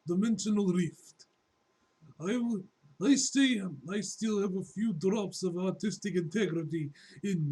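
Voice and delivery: put-on a light Russian accent on a comic villain's lines. Reading a comic villain to viewers in a Russian accent. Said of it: "My Russian accent".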